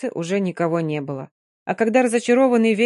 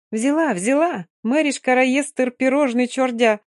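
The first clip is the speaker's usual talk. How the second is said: gleeful shout; 6 semitones higher than usual. Acted.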